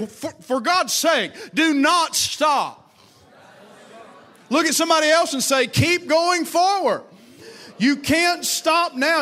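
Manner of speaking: rousing high call to keep going; rallying shout. Real, not acted. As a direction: lift the church with it. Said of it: "preacher rallying congregation".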